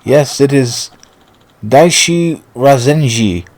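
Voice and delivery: lightly hammed English gentleman; measured, stagey declaration of love; posh suitor. Suitor recounts his journey to his beloved, lightly posh and stagey. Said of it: "nobody talks that way".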